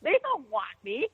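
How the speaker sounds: high-pitched retold protest; incredulous protest. Wrestler insists to caller she is blackballed, incredulous. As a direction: protest in disbelief, pitched well up. Retold disbelief at Hall of Fame news.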